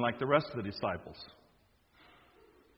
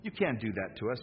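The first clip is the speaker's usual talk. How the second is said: raised, urgent protest to his master; pleading Peter; 6 semitones higher, 3 dB louder than usual. Acted. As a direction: plead with Jesus as a worried follower. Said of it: "Peter pulled him aside and said".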